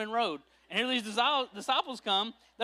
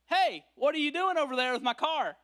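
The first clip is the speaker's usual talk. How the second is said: startled shout; 6 semitones higher than usual. Acted. Catching thieves at your car.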